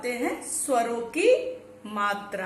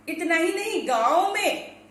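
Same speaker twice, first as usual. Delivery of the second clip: ordinary talk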